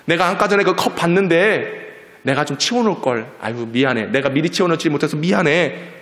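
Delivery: lightly voiced, conciliatory dad; apologetic father. Father reassuring his wife over spilt water, mildly apologetic. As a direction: hurry to take the blame kindly. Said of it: "그걸 들은 아빠는".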